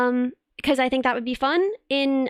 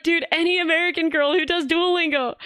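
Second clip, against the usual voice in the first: mock French boy; 5 semitones higher than usual. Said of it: "They're like".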